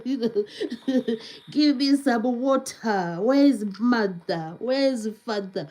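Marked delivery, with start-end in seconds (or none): 1.5-5.7 careful demo of "water", "mother", "father"; demonstrating her English. Shown as a demonstration. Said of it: "that's the English I speak".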